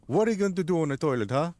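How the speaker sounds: high, squeaky mocking taunt; mocking uncle. Uncle mocks the scissor-hands idea in a squeaky taunting voice. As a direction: needle him in a squeaky put-on voice. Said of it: "He's like".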